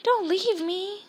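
high, slow, mildly plaintive cry; understated alarm, drawn out; pleading. A narrator's reading. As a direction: beg not to be abandoned. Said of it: "said Neville, screaming through".

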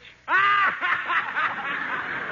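high, loud hysterical cackle; wild shrieking laugh. Acted.

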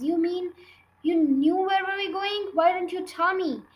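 put-on high, hurt little girl; a young girl, stung and pleading; upset child voice. Child upset by teacher's calm.

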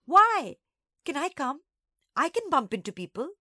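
put-on high, loud, eager child; excited squeaky pleading; squeaking. A narrator's reading. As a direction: beg to join in as a little sister. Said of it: "Nana squeaked".

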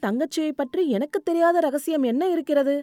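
lightly voiced Kamali. Voices Kamali, curious and warning. (லேசாக உயர்ந்த குரலில் ஆவலும் எச்சரிக்கையும்)

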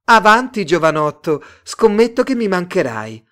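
loud, high-pitched call; shouted taunt. A narrator's reading. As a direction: cry out a dare to a passer-by. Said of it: "Una delle ragazze gridò".

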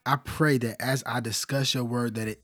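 prayer. Real, not acted. Opening prayer for the show.

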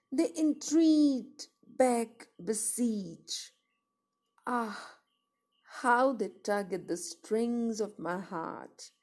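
plaintive verse reading, key phrases lifted then falling away; dramatic poem recitation. Acted. Poet lamenting a love that was a tragedy, dramatic recitation.

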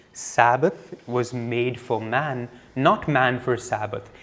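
slow, soft, weighty delivery of the saying; reverent, unhurried pronouncement; solemn and slow. Shown as a demonstration. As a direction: let each word land slowly and quietly. Second quoting of Christ's reply.

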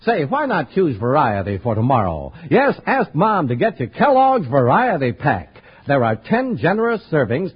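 ordinary delivery

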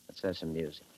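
soft, low suggestion. Acted. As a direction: say it quietly, almost to himself. Man asks, then insists.

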